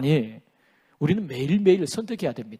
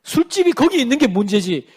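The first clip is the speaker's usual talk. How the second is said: sighing, halting mock lament; sigh, then grumble the blame onto someone else; imitated excuse-maker bemoaning bad luck; self-justifying. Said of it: "자기 합리화예요".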